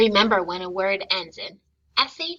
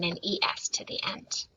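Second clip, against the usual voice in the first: whispering; 3 semitones lower, 6 dB quieter than usual. Real, not acted. Teacher explaining rule.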